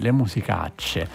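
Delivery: slow, lightly imitated echo; Carmelo Bene. Host echoing the guest's quote of the actor, lightly imitated. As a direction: draw it out in light mimicry. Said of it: "come diceva lui".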